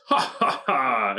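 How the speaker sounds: jolly laugh. Shown as a demonstration. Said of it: "the way that a very fat man might laugh".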